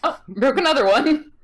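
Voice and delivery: sweet little Canadian voice. Retold or imitated. Quoting Kevin Owens breaking chairs in a sweet Canadian voice. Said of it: "in the sweetest little Canadian voice".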